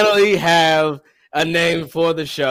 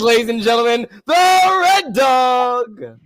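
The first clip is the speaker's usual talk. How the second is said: ring announcer; 5 semitones higher than usual. Acted. Introducing friend like ring announcer.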